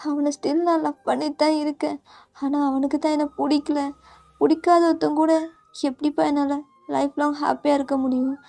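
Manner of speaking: mildly choked-up confession to her father; tearful pleading. Acted. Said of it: "நீங்க still நல்லா அழுதுட்டே". (அப்பாவிடம் அழுது கெஞ்சும் மகள், மென்மையாக)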